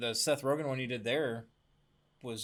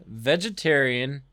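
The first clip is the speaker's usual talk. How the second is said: slow, loud deadpan announcement; mock solemn slogan, drawn out; reading a joke shirt; 9 dB louder, much slower than usual. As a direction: read it out slowly like a proclamation. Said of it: "that is a joke".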